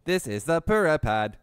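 stiff monotone robot voice. Pretend. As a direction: read it like a machine announcement. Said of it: "I can use my robot voice for this".

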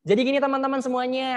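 high-pitched throat voice; suara tenggorokan. Shown as a demonstration. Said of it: "Pakai suara tenggorokan". (suara tenggorokan bernada tinggi)

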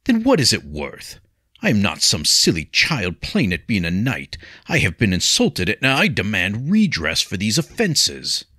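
put-on proud young knight bristling at an insult; glowering knight. Offended knight glowers at the marshal, mildly heated. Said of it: "Vincent glowered".

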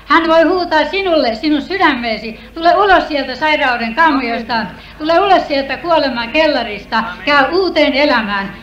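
loud, rising revival preaching; preaching at full force. Acted. Testifier calling out to the church, loud preaching. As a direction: proclaim it to the congregation.

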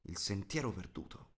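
plain reading voice

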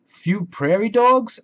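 high, loud cheerful clown voice; a jolly invitation from the clown; Jingles the clown. Acted. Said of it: "asked Jingles".

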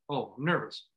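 note the nerves without reacting; calm recognition. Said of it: "Instead of just being like".

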